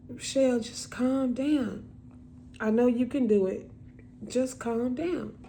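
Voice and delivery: gently reassuring sister, retold; soothing reassurance. Sister soothing her stuttering sibling.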